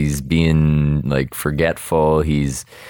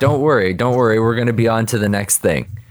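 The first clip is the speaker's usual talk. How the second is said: higher, breezy mock reassurance; lightly acted cheerleading, pitched up; upbeat reassurance; 5 semitones higher than usual. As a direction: imitate pals brushing off a worry. Friends reassure disappointed Krabs.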